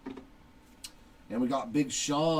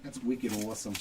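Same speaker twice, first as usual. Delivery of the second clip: lightly put-on Boston accent, lower; low-key mock Boston accent; 3 semitones lower, 4 dB quieter, faster than usual. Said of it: "say it with a Boston accent".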